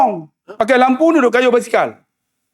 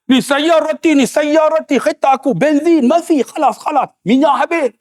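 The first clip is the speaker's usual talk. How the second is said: insistent Arab driver; 6 semitones higher than usual. Retold or imitated. Arab pleading, out of fuel.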